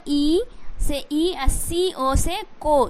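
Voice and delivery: slowly sounding each part; slow spelling out. Shown as a demonstration. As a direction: break it down slowly. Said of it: "एच को silent कर दिया". (धीरे धीरे तोड़कर)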